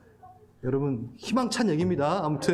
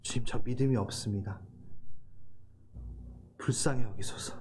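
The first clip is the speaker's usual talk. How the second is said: hushed prayer; 7 semitones lower, 6 dB quieter than usual. Acted. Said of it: "소리쳐서 울부짖읍시다".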